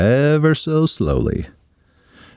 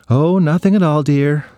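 mother's voice; 5 semitones higher than usual. Acted. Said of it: "said Christopher's mother".

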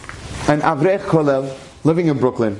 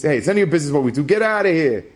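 gruff brush-off; 3 semitones higher, faster than usual. Retold or imitated. Utility worker shooing him off.

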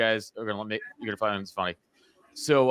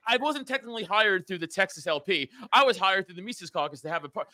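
mock whiny pedant; 6 semitones higher than usual. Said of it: "I'm not gonna be on Twitter being like".

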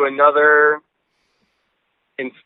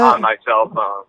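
on speakerphone; 6 semitones lower than usual. Real, not acted. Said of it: "why you sound like you're on speakerphone".

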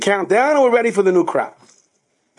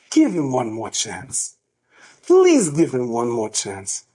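gentle plea; 4 semitones lower, slower than usual. Retold or imitated. Chaim pleads with the principal.

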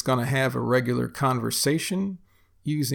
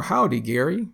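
Texan "Howdy, Gary", pitched higher; Texan greeting; 4 semitones higher than usual. Shown as a demonstration. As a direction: greet someone Texan-style. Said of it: "you might hear this used in a sentence".

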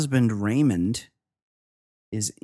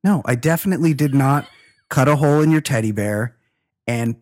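indignant royal denial; 2 semitones higher, 4 dB louder than usual. Acted. Mock denial as Prince Andrew.

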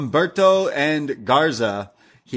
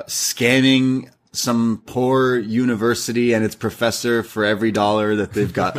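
normal talking voice

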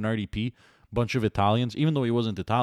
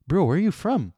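incredulous retold question; 8 semitones higher, 4 dB louder than usual.

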